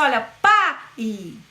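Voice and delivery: strong pa, then a faint i; syllable demo. Shown as a demonstration. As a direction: punch pa, let i fade. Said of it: "pronunciado com menor força".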